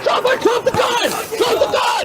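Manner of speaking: high, urgent yelled order; shouted command. Real, not acted. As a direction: bark it at the suspect. Officer orders armed suspect.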